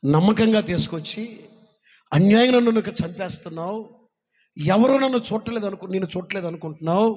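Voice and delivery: loud, pained accusation from a dying man; dying friend's accusation. Acted. Dying friend accuses his killer, loud and pained. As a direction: cry out the betrayal as you die. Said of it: "వాడి స్నేహితుడు అన్నాడు".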